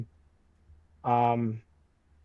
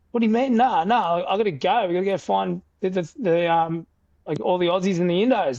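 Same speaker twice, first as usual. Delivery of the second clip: high raised insistence, rushing; panicked retold protest to his mates; frantic disbelief; 6 semitones higher, 4 dB louder than usual. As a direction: refuse to accept it, urgent.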